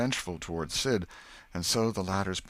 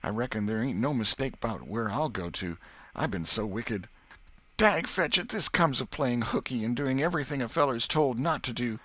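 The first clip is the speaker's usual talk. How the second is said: put-on higher, louder frightened country boy; scared boy; 7 semitones higher, 5 dB louder than usual. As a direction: fret like a terrified kid who's been bad.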